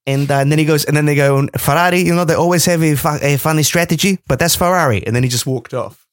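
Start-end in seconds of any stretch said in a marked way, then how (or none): 1.6-5.1 loose mock Spanish accent; Fernando. Podcaster as Fernando having a dig at Ferrari, mock Spanish accent. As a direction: put on a rough Spanish accent. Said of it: "what I'm doing with that accent".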